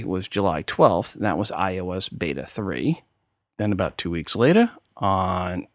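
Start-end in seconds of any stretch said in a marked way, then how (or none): 3.6-5.7 slipping into a New York accent on "later"; a light New York accent on "two weeks later". Real, not acted. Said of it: "my New York accent came out there".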